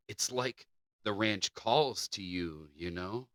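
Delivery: slow, hushed creepy rasp of a quote; a lightly creepy Gollum-ish murmur; Smeagol-like. Retold or imitated. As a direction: read it like a creature hoarding its ranch. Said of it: "that sounded very Schmeegol-like".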